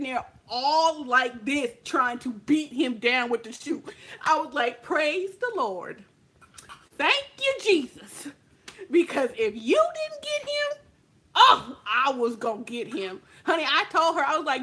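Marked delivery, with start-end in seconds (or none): 4.8-13.2 mock praise. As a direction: praise it like answered prayer. Thanking Jesus for revenge.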